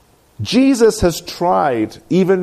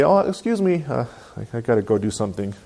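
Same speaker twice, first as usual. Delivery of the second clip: soft, casual, hesitant getaway; natural, polite excuse; 4 semitones lower, 5 dB quieter, faster than usual. Acted. Christian leaving without being hyper-religious, natural and polite. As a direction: drop low and mumble a human little excuse. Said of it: "be real, be natural, be human".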